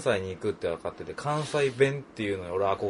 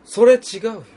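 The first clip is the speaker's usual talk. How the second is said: 「それ違うよ」 higher and louder, standard Tokyo tune; Kanto phrasing; 8 semitones higher, 9 dB louder than usual. Shown as a demonstration. Co-host demoing Kanto version of a reply: higher, louder. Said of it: "じゃじゃ".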